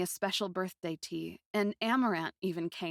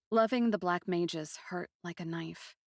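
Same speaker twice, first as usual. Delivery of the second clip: usual speaking voice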